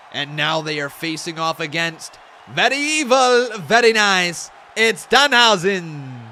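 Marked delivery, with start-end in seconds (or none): 2.5-6.2 a hint of creepy Danhausen; terrible Danhausen. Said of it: "That's my terrible Danhausen impression".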